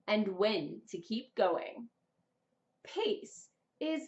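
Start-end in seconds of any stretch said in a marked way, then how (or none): 0.1-1.9 slow, measured. Shown as a demonstration. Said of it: "knowing when to pause".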